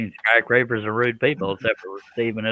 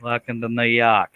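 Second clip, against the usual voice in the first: put-on New York accent. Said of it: "Do your best New York".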